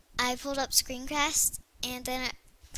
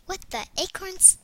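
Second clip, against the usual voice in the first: pitched-up surprised exclamation; surprised catchphrase; 6 semitones higher than usual. Shown as a demonstration. Kid showing her surprised phrase, pitched up. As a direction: blurt it out, higher, as if startled. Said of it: "when I'm, like, surprised".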